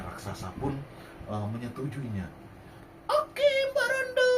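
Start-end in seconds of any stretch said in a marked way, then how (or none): 3.1-4.3 high, loud giant voice. Acted. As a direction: boom it like a playful giant. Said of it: "kata raksasa".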